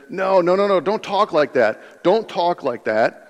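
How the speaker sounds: acted-out friendly scolding; mock protest. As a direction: cut off the gloomy talk, imploring. Acts out Peter protesting to Jesus.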